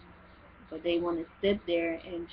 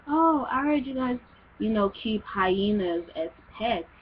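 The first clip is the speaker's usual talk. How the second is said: higher, louder "oh" in imitated wonder; a guy asking if they keep hyenas as pets; mock ignorant question; 3 semitones higher, 4 dB louder than usual. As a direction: play the guy as wide-eyed and clueless. A guy's ignorant question retold.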